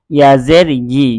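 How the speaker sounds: ইয়া জের ই with a soft, gliding ই. Shown as a demonstration. Teacher shows students a soft ya with zer. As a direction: let the ই glide in gently. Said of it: "ইয়া নরম করে".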